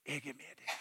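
soft, intimate voice; quiet personal assurance. Acted. Jesus speaking personally by name. (lavt og nært)

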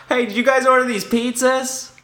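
very high cartoon delivery guy; high squeaky voice.

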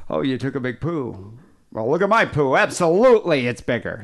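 a light, lightly voiced one-upping Steele; Steele impression. Host doing his own Steele for the listener, lightly voiced. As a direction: toss it off as a loosely done Steele. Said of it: "my Steele impression would be like".

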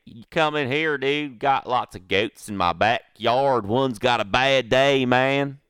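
exaggerated Canadian redneck goat owner. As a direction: stretch it out as a hammed-up Canadian redneck. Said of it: "in his Canadian redneck voice".

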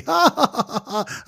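high, hammed-up hysterical laugh; Abdulia. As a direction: imitate someone cracking up, very high. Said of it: "he started laughing hysterically".

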